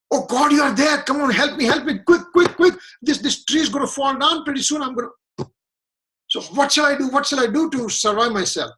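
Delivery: high, frantic begging with a cracking laugh-cry; panicked pleading. Retold or imitated. Falling man clinging to a dry tree begs God, panicked high pleading. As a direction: beg for rescue, voice jumping high. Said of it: "So he started screaming".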